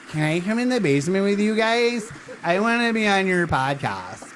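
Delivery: high, put-on pleading kid voice; mock eager daughter. Host mimics guest asking into the basement, mock eager. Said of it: "and she's like".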